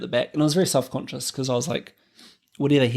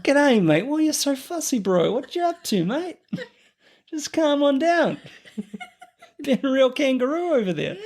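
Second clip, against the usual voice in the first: much higher, hammed-up Aussie accent with laughter; mock Australian bloke; 12 semitones higher than usual. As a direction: play a cartoonish Australian barber. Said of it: "goes to an Australian barber".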